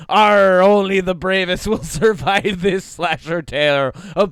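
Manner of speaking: loud pirate storyteller; booming pirate ending. Acted. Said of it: "say it in a pirate voice".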